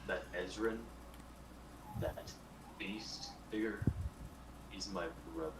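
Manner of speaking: usual speaking voice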